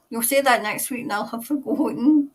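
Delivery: ordinary talk, nothing marked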